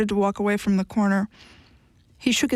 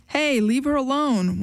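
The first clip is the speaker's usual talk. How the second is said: half-hearted call, slow and a little higher; lackluster yell; 5 semitones higher than usual. A narrator's reading. A bystander calling out to the man from across the street, lackluster. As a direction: shout across the street without really meaning it. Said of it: "yelled from across the street, but it was lackluster".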